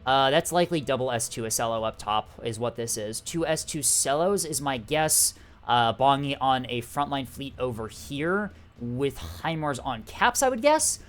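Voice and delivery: upbeat esports caster delivery; announcer voice. Acted. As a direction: cast it like a live tournament broadcast. Casts the match as announcer.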